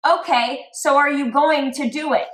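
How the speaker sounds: high, loud pressing question; pushy eagerness. Acted. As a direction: read it as an insistent, over-keen nudge. Acting out her pressing text message.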